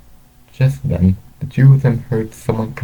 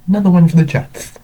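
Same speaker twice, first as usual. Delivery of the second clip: quick, high-pitched cheer; celebrating fan; 11 semitones higher, 4 dB louder, faster than usual. A narrator's reading. Two men cheer the Jets' touchdown, celebrating. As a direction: celebrate the score in a fast, high burst.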